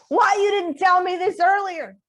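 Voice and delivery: high, loud, indignant retelling; imitated angry accusation. Acting out angry roommate's accusation.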